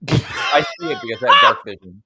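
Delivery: loud proud declaration. Real, not acted. Player boasts loudly.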